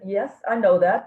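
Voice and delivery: a cheeky "of course I know" thought aloud; sassy inner retort. Retold or imitated. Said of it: "I thought, I didn't say that last part".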